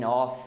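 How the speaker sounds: "of" mispronounced as OFF; learner's F ending. Shown as a demonstration. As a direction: end it wrongly on F. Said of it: "I hear many Brazilians saying".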